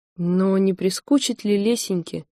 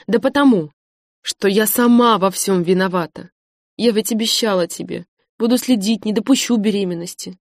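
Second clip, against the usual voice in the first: heated; 4 dB louder than usual. Acted. Lesya's heated confession.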